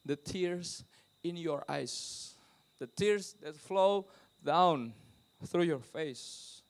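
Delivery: very slow, phrase by phrase; slow emphatic consoling. Retold or imitated. Preacher retells consoling a crying believer, slowly and deliberately. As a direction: draw out each word with weight.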